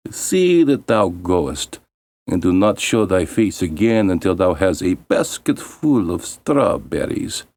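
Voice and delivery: lightly voiced cold order; stepmother's command.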